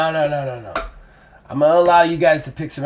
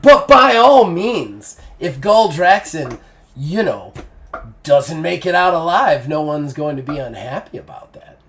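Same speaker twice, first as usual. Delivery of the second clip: sly smiling. Acted. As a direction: drop a wink in the voice. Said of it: "Taya smiles at you and goes".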